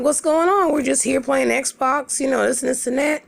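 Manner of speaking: high, mock-innocent voice; playing dumb. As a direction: feign cluelessness, keep it up high and casual. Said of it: "So I play dumb".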